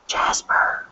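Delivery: hushed whispered name; whispering. Pretend. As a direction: whisper it like a spy. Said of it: "imagine being a secret agent".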